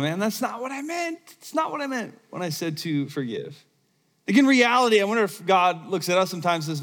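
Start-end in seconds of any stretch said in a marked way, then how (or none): 0.0-3.6 lightly voiced exasperated God, higher and softer; a hint of a head-shaking referee dad. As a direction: sigh it out like a weary father. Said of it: "God ... going".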